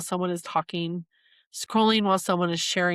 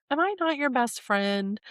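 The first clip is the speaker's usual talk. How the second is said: mom's question voiced higher, a touch hurt; 6 semitones higher than usual. Daughter voicing her mom asking if she's still her best friend, higher and a little hurt. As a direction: lightly voice a worried mother. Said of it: "And she's like".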